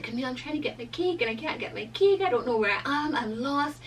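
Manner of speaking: high, mock-frantic phone plea; retold panic. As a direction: replay a flustered call for help. Panicked phone call to friend retold.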